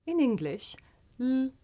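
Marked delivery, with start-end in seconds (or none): 1.2-1.5 light L, as at the start of a syllable; L as a clear, held consonant sound, tongue behind the teeth; syllable-initial L. Shown as a demonstration. Teacher showing learners L at the beginning, syllable-initial L. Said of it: "at the beginning of the syllable".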